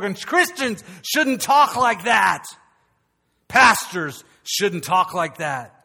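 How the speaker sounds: slow, weighty, each word pressed; a preacher's slow rebuke; slow emphatic. Acted. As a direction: lay the guilt on slowly. Preacher scolding himself.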